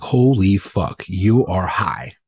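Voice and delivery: slow, drawn-out amazement; stunned doctor. Retold or imitated. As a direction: drag each word out in disbelief. Doctor reacting to readings.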